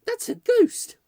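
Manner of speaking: high, loud terrified shriek; child shrieking at a ghost. Acted. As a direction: scream it out in fright at the ghost. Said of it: "Marion gave a shriek".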